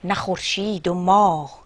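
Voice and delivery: slow, measured verse reading with pauses between phrases; poem recitation. Acted. (شعرخوانی حماسی، شمرده)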